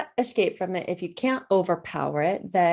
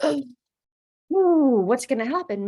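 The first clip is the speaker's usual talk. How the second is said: mock-anxious, higher-pitched worry; acted alarm; 5 semitones higher, 5 dB louder than usual. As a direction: voice the body's alarm at a text, pitched up. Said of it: "your body goes".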